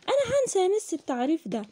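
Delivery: high, quick pupil voice; high-pitched acted pupil; pupil's complaint. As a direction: pipe up quickly like a pupil worried about forgetting. Voicing a pupil's worry.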